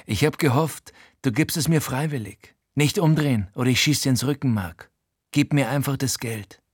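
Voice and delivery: Frankie, etwas höher, gepresst drohend; leicht höherer Frankie, drohend. Acted. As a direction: droh ihm von hinten, ohne laut zu werden. Frankie bedroht ihn mit Pistole. (Frankie bedroht den Erzähler mit der Pistole im Rücken, gepresst)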